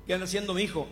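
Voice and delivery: un toque de abuelo curioso, algo más alto y fuerte; voz de abuelo. Acted. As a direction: abuelo que interroga al nieto. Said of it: "El abuelo". (abuelo preguntando al nieto con tono algo más alto)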